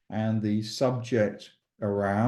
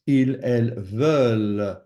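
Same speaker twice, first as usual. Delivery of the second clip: "veulent" emphasised with its final L sounded; stress on endings; 3 dB louder than usual. Shown as a demonstration. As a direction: lean on the end of "veulent". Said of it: "it is the endings".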